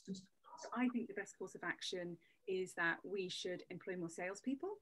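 "salespeople" lifted at the end as if asking; statement said as a question. Shown as a demonstration. Coach demos an unsure statement to her guest, rising question tone. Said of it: "So it's a statement made as a question".

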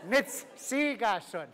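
"Nitsi gasun" very slow, split into "Nitsi" and "gasun", stress on Nitsi; slow syllable demo. Shown as a demonstration. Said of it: "Go like this".

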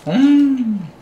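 talking while chewing food; muffled through chewed bite; mouth full, chewing. Real, not acted. Seen 2: Bites at -3, cheeks full, jaw chewing throughout labelled words.

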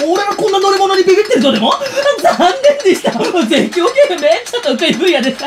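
loud, laughing bluff; forced laughing boast; nervous laughing bravado. Acted. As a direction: laugh off his fear loudly.

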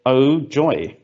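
dry mock delight; sarcastic. Shown as a demonstration. Speaker demos sarcasm to the emotion AI, dry and mocking. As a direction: say it as if it were anything but joy. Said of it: "I'm gonna be sarcastic".

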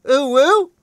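high excited squeal; squealy anime cheer. Retold or imitated. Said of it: "in the style of an anime girl".

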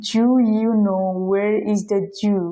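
slow demo with "Do you" squeezed to "Jew"; native fast blending. Shown as a demonstration. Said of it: "এরকম যদি কোনো sentence বলে".

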